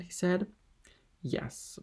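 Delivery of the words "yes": much softer reply; low voice. A narrator's reading. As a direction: barely let the word out. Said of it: "was the reply in a low voice".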